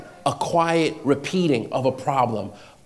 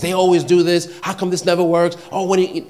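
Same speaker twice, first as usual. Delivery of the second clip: slightly higher-pitched imitation of a griper; mock complaining; 3 semitones higher, faster than usual. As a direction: act out an open, exasperated grumble. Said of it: "that's complaining, right?".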